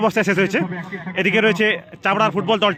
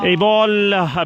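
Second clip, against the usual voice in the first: excited commentary; much slower than usual. Real, not acted. Missed penalty in shootout.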